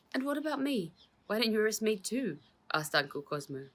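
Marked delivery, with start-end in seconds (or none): 0.1-2.4 high, louder incredulous challenge; disbelieving. Acted. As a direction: demand it in disbelief. There was disbelief in his voice.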